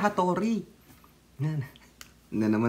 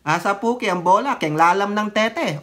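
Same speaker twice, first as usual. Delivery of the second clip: mock Kapampangan. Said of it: "yung parang sa Bulacan".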